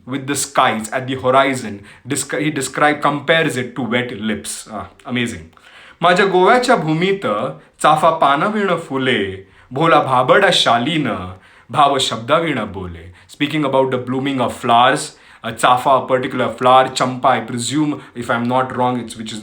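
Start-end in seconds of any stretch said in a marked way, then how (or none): 6.0-13.1 poem recitation. Acted. Host recites Marathi poem on Goa to listeners, poetic recitation. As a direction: recite in measured phrases, pausing between lines.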